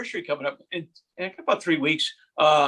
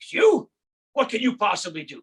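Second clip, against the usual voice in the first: mocking scoff; 3 semitones higher than usual. Knight mocking challenger.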